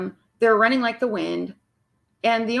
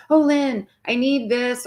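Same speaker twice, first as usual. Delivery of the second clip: mock whiny client; 2 semitones higher, slower than usual. Mocking clients who email her, pleading voice. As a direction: imitate a needy client begging for help. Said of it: "that are like".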